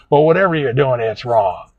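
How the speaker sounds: mildly angry retold dentist; kind of mad. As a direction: lightly imitate an exasperated dentist. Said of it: "gets kind of mad".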